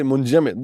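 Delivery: munjamid said the Arabic way, clear j and final t; Arabic word. Shown as a demonstration. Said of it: "as we say, in Arabic".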